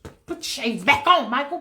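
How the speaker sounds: voiced, exasperated command after sputtering; insistent order. The speaker makes Michael put his shades on, exasperated insistence.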